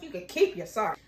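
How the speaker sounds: low, quick dismissal; dismissive. Acted. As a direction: curtly brush off the apology. First, low dismissal of apology.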